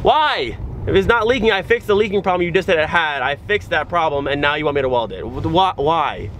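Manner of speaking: incredulous rant about being told to weld; frustrated rant. Real, not acted. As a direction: vent at the absurd demand. Ranting at the inspector's demand.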